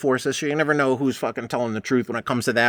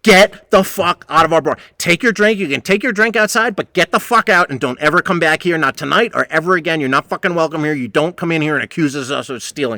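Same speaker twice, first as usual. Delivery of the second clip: angry shouting; 4 semitones higher, 4 dB louder than usual. Retold or imitated. Throwing out drunk customer.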